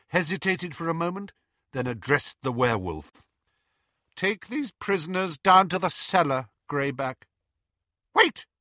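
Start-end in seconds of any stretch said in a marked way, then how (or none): 4.2-7.3 high haughty order; cold command. Acted. Narcissa to Greyback, high haughty order. 8.2-8.5 sharp very high loud cry. Acted. Bellatrix stopping Narcissa, sharp high cry. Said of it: "said Bellatrix sharply".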